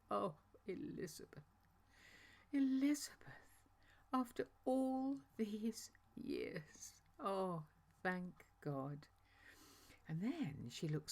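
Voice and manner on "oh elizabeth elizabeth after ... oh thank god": hushed, slow, higher whisper; tearful whisper. Retold or imitated. Mary overwhelmed by news of Elizabeth, whispering tearfully. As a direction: breathe it through held-back tears.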